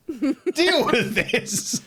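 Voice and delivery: high, very slow, drawn out; exasperated. Acted. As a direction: drag it out in disbelief. Exasperated address to Liz.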